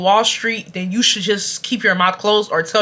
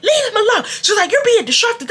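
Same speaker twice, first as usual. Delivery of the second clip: high whiny classmate; 12 semitones higher than usual. Retold or imitated. Girl's complaint voiced.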